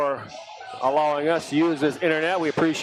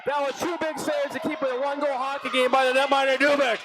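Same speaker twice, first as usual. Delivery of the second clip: excited praise; 9 semitones higher than usual. Real, not acted. Praising saves after the shout.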